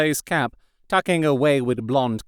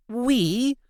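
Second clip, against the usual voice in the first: protesting; 11 semitones higher than usual. A narrator's reading. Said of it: "Anne protested".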